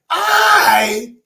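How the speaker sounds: mean every word, slowly; slow sincere apology. Shown as a demonstration. Coaching Donna how to apologize to her sister, slow and sincere. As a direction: stretch out apologize for this, heartfelt. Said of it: "first thing you do is you say".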